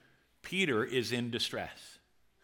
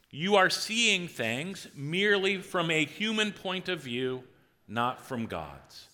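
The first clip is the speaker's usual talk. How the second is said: reading scripture aloud together; 3 semitones higher, slower than usual. Shown as a demonstration. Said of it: "Read it out loud with me".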